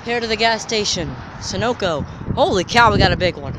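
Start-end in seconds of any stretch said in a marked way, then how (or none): 2.3-3.5 surprised. Real, not acted. Spotting a big jet.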